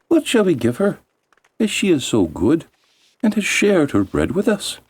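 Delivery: high little elf voices; elves conferring. Acted. Elves confer among themselves.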